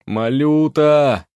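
loud, drawn-out slow call. A narrator's reading. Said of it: "снова позвал аптекарь".

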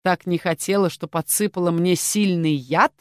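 lady questions the poisoner skeptically. Acted. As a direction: question her with open disbelief. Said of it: "со скепсисом спросила".

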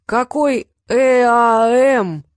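loud, very drawn-out exasperated cry; exclaimed. A narrator's reading. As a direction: bellow each letter out slowly. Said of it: "воскликнул Щавель".

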